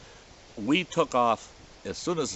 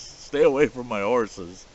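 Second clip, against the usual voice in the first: louder retelling of the warning, less full than the first; half-bellowed threat repeated; retold bellow; 2 semitones higher, 6 dB louder than usual. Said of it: "him bellowing at us".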